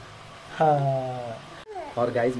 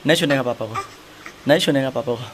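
firm scolding; 5 dB louder than usual. Real, not acted. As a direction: tell her off firmly. Scolding the toddler. (बच्ची को सख़्ती से डाँटना)

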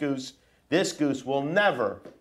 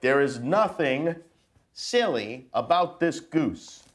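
put-on reading to children. Dad reading a picture book to his kids, mock serious. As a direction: read it solemn and serious to the kids.

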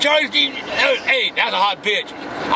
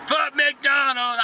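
slow angry shout; 2 semitones higher, much slower than usual. Acted. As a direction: drag each word out in a furious yell. Cursing the sponsor.

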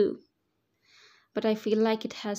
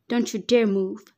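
stern, louder command; strict warning; 4 dB louder than usual. Acted. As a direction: order her to stay put, no arguing. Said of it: "he told me strictly".

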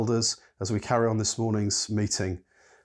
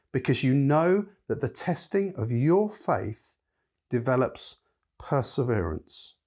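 slow, measured Bible reading; scripture reading; 3 semitones higher than usual. Acted. Preacher reads James to the congregation, slow and measured. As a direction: read the verse slowly to the church.

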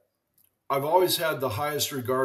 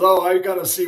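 higher and louder, playful retold exclamation; a hint of teammate teasing; mock lively Willie; 6 semitones higher, 9 dB louder than usual. Willie Mays voiced in story.

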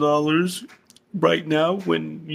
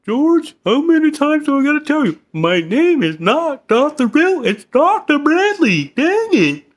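higher and louder, fast and fed up; exasperated shout; 6 semitones higher, 4 dB louder than usual. Acted. Therapist to patient, scolding him in an exasperated shout. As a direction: yell at him to get your name right. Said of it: "is somebody getting mad?".

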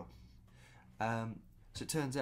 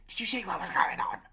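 higher, louder call to the whole room; mock stage announcement; 12 semitones higher, 8 dB louder than usual. Telling the whole restaurant about the couple, high and loud. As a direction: announce it to everyone, playfully. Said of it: "I did it subtly, but I went".

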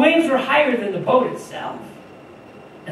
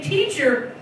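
shouting; 3 semitones higher, 4 dB louder, slower than usual. Retold or imitated. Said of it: "So the disciples shouted".

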